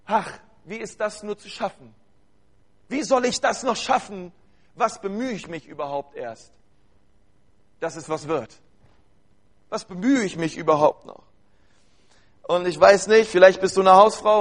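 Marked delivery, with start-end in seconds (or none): 0.1-11.2 weary sigh. Retold or imitated. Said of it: "da denke ich mir manchmal".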